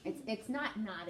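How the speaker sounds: 'not' said like New York naughty; NY-style 'not not'; New York accent. Shown as a demonstration. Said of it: "bad New York accent showing through".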